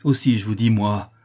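a touch of mad fury; understated wild anger. Acted. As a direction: insist with mild heat. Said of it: "un redoublement de folle fureur".

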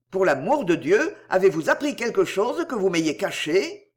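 puzzled question, «caché» rising at the end. A narrator's reading. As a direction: ask it searchingly, lifting «caché» at the end. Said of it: "il reprit d'un ton interrogateur".

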